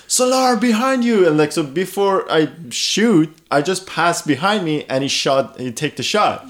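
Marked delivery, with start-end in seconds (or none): 0.1-1.3 high-pitched mock yell; imitated teammate's yell. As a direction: call out urgently to a teammate, acted. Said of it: "yelled at me".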